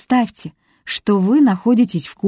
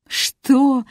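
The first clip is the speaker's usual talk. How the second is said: laughing question; 7 semitones higher than usual. A narrator's reading. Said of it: "засмеялся Борис".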